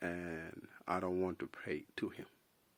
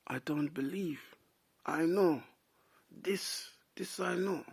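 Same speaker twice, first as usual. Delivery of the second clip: Carl Jung impression; 8 semitones higher, slower than usual. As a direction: pitch up and pronounce it like a wise old Carl Jung. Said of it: "I can't do a good impression of Carl Jung".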